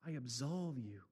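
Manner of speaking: soft low priestly absolution; sweet voice of Jesus. Acted. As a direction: breathe it out tenderly like a forgiving Jesus. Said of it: "the sweet voice of Jesus".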